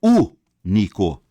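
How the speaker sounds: drawn-out único as an example; slow loud stress. Shown as a demonstration. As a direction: stretch out único. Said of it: "Assim como ocorre em histórica".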